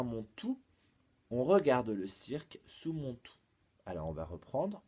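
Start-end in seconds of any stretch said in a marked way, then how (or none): 0.0-3.4 riddle recital. Shown as a demonstration. Presents final riddle clue.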